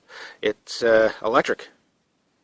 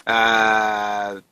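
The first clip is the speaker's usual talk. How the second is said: ordinary talk, nothing marked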